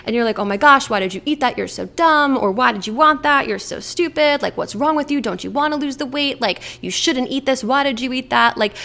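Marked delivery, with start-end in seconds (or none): 0.4-2.4 louder, exasperated self-berating; mock telling yourself off; exasperated inner critic; scolding self-talk. Acting out negative self-talk. 2.5-8.6 higher, insistent mock scolding; exasperated inner critic nagging; scolding self-talk. Acting out negative self-talk.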